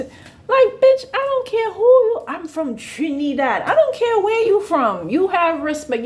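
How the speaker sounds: high, loud mock Trinidadian accent. Rude Trinidadian coworker ranting about respect, Trinidadian accent. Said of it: "she was Trini".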